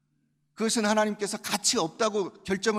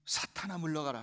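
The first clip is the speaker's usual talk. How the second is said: model rebuke; 3 semitones lower, 6 dB quieter than usual. Shown as a demonstration. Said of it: "하세요".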